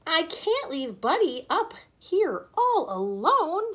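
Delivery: slow, heartfelt refusal; sad plea. A narrator's reading. Boy tells the adults he won't leave his dog, sad and slow. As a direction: hold on to his lost friend.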